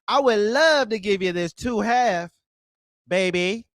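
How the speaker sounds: mock a caller sweet-talking a woman, syrupy and over the top. Streamer mocking a caller's seduction lines, hammed-up crooning. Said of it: "when you sweet talk a woman".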